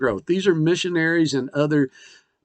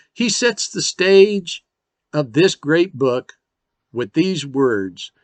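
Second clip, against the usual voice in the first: slow dramatic buildup; slower than usual. Real, not acted. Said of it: "slow dramatic setup".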